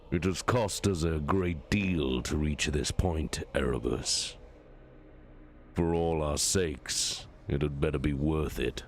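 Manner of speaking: a lightly voiced cold warlord; War Master, menacing. War Master threatens Erebus.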